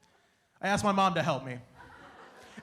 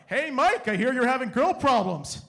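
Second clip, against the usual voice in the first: mock yell; 3 dB louder than usual. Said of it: "my buddy yelled out his window".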